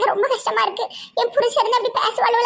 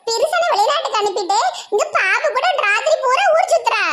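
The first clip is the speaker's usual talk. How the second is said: gossip with a laugh; 4 semitones higher than usual. Acted. Gossiping about a neighbour, laughing.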